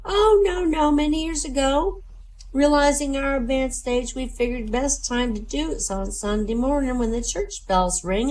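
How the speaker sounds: high granny voice, slowing on the rhythm; elderly grandmother. Acted. Grandmother explaining the church-bell routine, high granny voice. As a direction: reminisce as an old lady in a high voice. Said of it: "the grandmother said".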